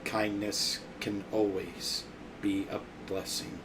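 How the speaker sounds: a hint of a cold robot; robotic voice. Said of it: "in a robotic voice".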